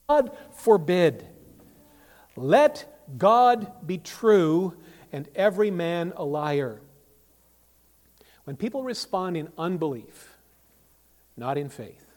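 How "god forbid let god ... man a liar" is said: loud, slow, high preaching; thundering, drawn-out pulpit proclamation; emphatic declaration. Retold or imitated. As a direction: proclaim it word by word with full force. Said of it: "one of Paul's emphatic, uh, negations".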